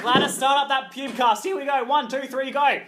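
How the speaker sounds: excited countdown. Pretend. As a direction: count it in like a launch. Commanding robot assistant to start.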